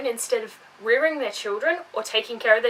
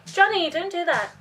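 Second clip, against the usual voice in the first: mock distracted parent; 6 semitones higher than usual. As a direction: nag the kid while bragging online. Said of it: "the parent's standing there going".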